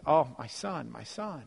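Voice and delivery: understated fatherly tenderness; tender welcome. Acted. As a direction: murmur it as a relieved father. Father greets returning son.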